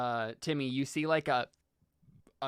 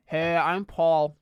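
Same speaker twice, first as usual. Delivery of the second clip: Paul; 4 semitones higher, 6 dB louder than usual. Acted. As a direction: greet a new camp buddy loudly. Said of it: "he's like".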